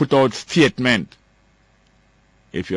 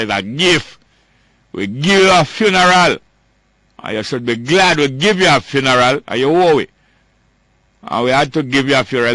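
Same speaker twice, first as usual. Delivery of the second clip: scornful mock politician, pitched up and loud, leaning on you; mocking the minister; 3 semitones higher, 3 dB louder than usual. Radio host mocks the minister's funeral gift, scornful loud mimicry. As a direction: sneer it as the arrogant minister handing out a gift.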